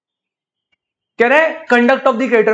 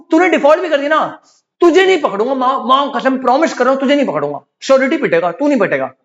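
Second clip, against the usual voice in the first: higher, coaxing promise; lenient creditor; 4 semitones higher than usual. Pretend. Creditor reassuring the debtor, higher coaxing voice. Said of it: "अगर मैं बोलूं".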